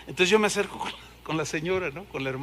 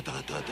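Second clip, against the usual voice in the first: mock tongues; 8 semitones lower, 14 dB quieter than usual. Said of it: "empiezo igual que ella".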